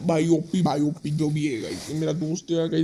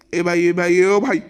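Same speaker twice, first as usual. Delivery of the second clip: startled; 5 dB louder than usual. Real, not acted. Sudden alarm during the game.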